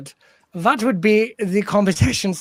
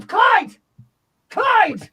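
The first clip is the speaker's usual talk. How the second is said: sharp call, higher; calling the bird; 12 semitones higher than usual. Acted.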